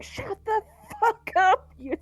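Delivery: screaming back. Retold or imitated. Players voicing their characters screaming at Chris, strained mock scream. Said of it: "start screaming at him".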